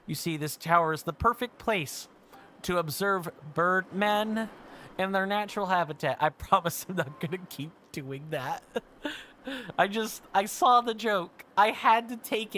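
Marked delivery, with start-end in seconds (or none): 0.0-6.2 hushed documentary narrator voice; nature documentary. Pretend. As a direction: narrate like a wildlife film. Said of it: "I'm gonna drop the voice down".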